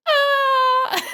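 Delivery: high squeal then giggle; imitated squeal. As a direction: squeal like the vet techs. Vet techs squeal offscreen.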